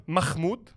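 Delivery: "Mahmoud" with a hard throaty kh for the h; Aussie mispronunciation. Retold or imitated. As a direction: say "Mahmoud" as "Makh-mood". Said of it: "variations of my name that I've heard from Aussies".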